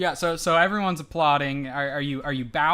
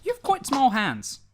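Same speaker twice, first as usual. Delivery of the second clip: giant voice; 9 semitones higher than usual. Acted. Edward voice.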